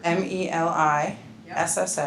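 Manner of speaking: M E L I S S A in measured, separate letters for note-takers; slow spelling. Shown as a demonstration. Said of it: "Say it slow".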